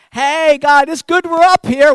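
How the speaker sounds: loud, high, eager outburst; eager Peter. Acted. Peter blurting to God on the mountain, loud and eager. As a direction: blurt it out like an overexcited disciple. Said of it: "And Peter, being Peter, has to say something".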